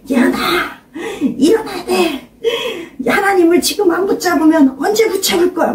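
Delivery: urgent, strained shout to rouse someone. Retold or imitated. Pastor rousing Ye-eun to pray and cling to God, urgent shouting. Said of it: "목사님 그렇게 소리 지르면".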